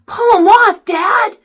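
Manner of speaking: high, loud blurt; eager suggestion. A narrator's reading. Boy suggests rescue to dad, high and eager. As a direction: pipe up with urgency.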